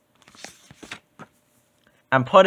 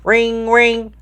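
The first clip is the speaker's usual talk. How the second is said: phone ring imitation; 8 semitones higher than usual. A narrator's reading. Imitating the cell phone ringing.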